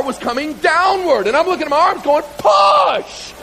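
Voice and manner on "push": high, loud desperate shout; straining yell. Retold or imitated. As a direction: order your arms to push. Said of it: "hears all this screaming".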